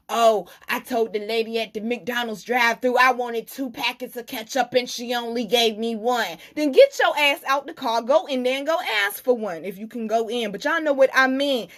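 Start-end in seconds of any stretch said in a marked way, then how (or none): 0.1-6.4 mock whiny customer voice; lightly mocking a petty customer; whiny complainer. 6.5-9.6 louder, higher scolding; exasperated telling-off. Real, not acted. Scolding the viewer.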